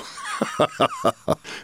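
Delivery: high, breathy villain cackle; evil laugh. Acted. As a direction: cackle like a final boss. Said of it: "mocking them and laughing as Shao Kahn".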